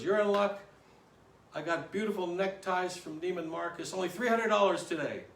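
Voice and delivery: a touch of eager sales patter; salesman pitch. Acted.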